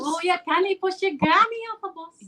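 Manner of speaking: Scottish with rolled R's; Scottish accent. Shown as a demonstration. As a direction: model the Scottish saying for a learner. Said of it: "You gotta roll the".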